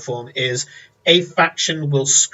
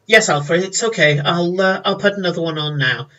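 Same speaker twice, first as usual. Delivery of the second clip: Olivia's voice; 4 semitones higher than usual. Acted.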